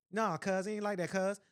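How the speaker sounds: hood slang impression. Speaker quotes other young men at the event, imitated hood talk. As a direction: lightly mimic young men talking street. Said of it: "talking like he was in the hood".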